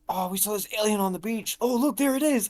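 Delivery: high, fast, hammed-up kid excitement; mock kids pointing out an alien; mock excited kids. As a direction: squeal it like kids faking a discovery. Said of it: "they go".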